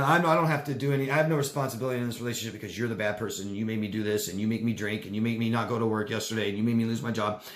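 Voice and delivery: fast, defensive blame; blaming villain. Acted. Villain blaming the partner, fast and defensive. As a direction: rattle off every excuse. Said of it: "the villain that blame everybody".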